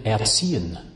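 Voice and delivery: "erziehen" in German, air-TSEE-en; German word. Shown as a demonstration. Comparing the German verb, "erziehen" said in German. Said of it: "German has a good one here".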